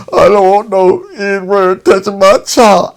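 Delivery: loud, high, slow, angry father. Retold or imitated. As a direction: spit it out like a hostile father. Angry father refusing the nurse.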